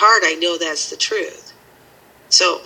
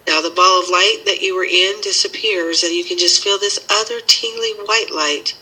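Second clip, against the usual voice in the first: guided meditation. Acted.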